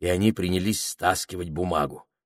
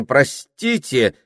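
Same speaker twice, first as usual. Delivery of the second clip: louder, higher, slow excuse me; 7 semitones higher, 6 dB louder, slower than usual. Acted. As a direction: say it louder to be heard. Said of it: "уже гораздо громче".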